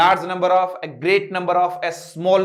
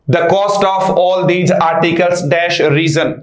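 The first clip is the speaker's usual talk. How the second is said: dictation pace; 6 dB louder, much slower than usual. Shown as a demonstration. Teacher reading out a question.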